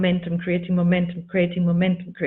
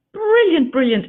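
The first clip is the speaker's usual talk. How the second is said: high, loud delighted exclamation; excited praise; 7 semitones higher, 6 dB louder than usual. Real, not acted. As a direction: gush with sudden admiration. Admiring an actress's accent.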